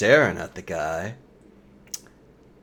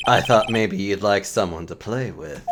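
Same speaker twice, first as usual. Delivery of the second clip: smooth rival prosecutor; 4 semitones lower, 3 dB quieter than usual. Acted. Rival prosecutor teasing the nervous lawyer, low and smooth. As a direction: purr it like a smug rival.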